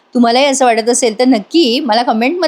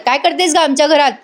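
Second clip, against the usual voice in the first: raised pitch, mock scolding at normal volume; retold yell; 4 semitones higher than usual. Aunt questioning the frightened girl, retold yell. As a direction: press the child for an answer. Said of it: "वसू आत्या ओरडून म्हणतात".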